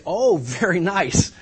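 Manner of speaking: slow, drawn-out mock praise; sarcastic praise. Friend reacting to a huge blunder, sarcastically. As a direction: stretch out the fake compliment. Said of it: "if you choose to say".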